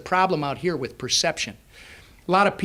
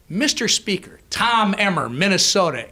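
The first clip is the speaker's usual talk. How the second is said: higher, louder announcement of name and state; insistent self-introduction; 3 semitones higher, 4 dB louder than usual. Retold or imitated. New member cornering the Speaker at an event, insistent introduction. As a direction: punch out each part, relentless introduction. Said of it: "and I went".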